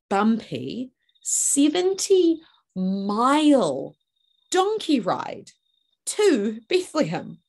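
high, loud, drawn-out mock advice; comic emphasis. Mary advising pregnant women on inducing labour, with comic emphasis. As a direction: punch each word slowly for comic effect.

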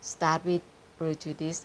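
slow, careful "prejudice"; struggling with pronunciation. Shown as a demonstration. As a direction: sound out "prejudice" slowly as a hard foreign word. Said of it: "ออกเสียงยากมากค่ะ".

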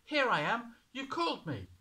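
put-on high, loud eager boy; a little boy hurrying to answer; boy voiced high and bright-eyed; young boy. A narrator's reading.

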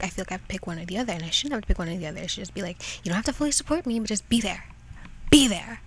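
talking while chewing gum. Real, not acted. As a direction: chew gum as you talk. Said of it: "you can hear gum chewing".

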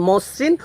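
মসৃণ with the first vowel as a rounded o; pronunciation demo. Shown as a demonstration. Teacher shows students how to pronounce it, pronunciation demo of মসৃণ. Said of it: "তোমাদের উচ্চারণও বলছি".

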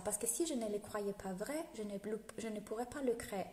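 ordinary talk, nothing marked

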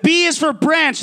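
a hint of a stern dad, mild; lightly voiced threatening father, not yet yelling; imitating dad. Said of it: "And he'd be like".

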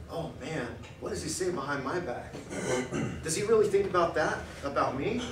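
softly voicing a wounded wife; a hushed, hurt aside from the wife; hurt wife, quiet. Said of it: "She's gonna sit there and go".

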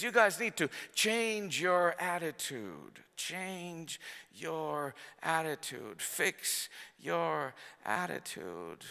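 Paul scolding the church, slow and soft; stern admonition. Retold or imitated. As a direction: quietly press the rebuke home. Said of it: "He's writing from a prison and saying".

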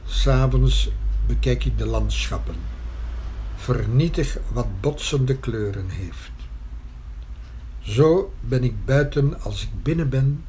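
measured poetry reading with long pauses; poem recitation. Acted. Poet reciting verse about painting their existence in writing, measured recitation. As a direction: recite line by line, letting each phrase stand.

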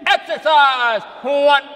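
projected drill-leader count; punched, evenly spaced drill call; cadence count. Shown as a demonstration. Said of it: "And we go".

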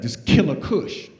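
slow, low name drop; proud stoner son. Retold or imitated. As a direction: savor the strain name. Son names the weed.

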